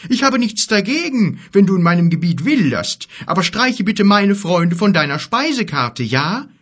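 high, loud, protesting giant; indignant giant. Acted. Giant warning a bear off his friends, indignant. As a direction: lay down a loud, high-pitched demand. Voices Gork the giant objecting.

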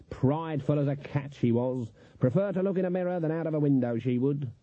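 lightly voiced grumbling old witch; a hint of a scandalised country woman; disapproving Granny. Granny condemning her sister's vanity, disapproving.

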